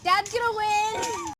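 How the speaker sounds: slow, loud call to Mom. Real, not acted. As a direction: call it across the yard. Calling out to Mom.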